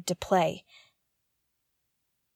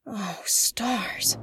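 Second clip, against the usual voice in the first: whisper; 2 semitones lower, 5 dB quieter than usual. Acted. Alone, dread over stranded crew.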